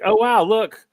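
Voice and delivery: a fan caught off guard by a good match; mock excitement. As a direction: perk up in sudden mock delight. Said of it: "I was like".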